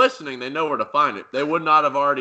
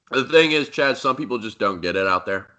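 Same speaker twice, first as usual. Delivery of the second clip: mock host voice. Mock talk-show host voice.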